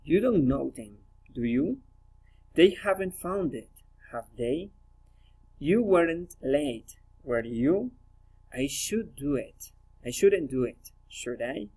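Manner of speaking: statement falls, then tags "do you?", "have they?", "should I?" lift; falling-rising intonation. Shown as a demonstration. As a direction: drop on the statement, raise the short question. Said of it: "falling, rising intonation".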